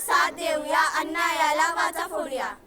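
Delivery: slow, loud rallying call; slow loud slogan. Acted. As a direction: call it out to the crowd.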